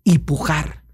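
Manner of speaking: slow, measured teaching; solemn shaman's saying. Retold or imitated. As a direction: pronounce it slowly like sacred words. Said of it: "la recito como es, así me la dijo". (el chamán recita despacio su enseñanza)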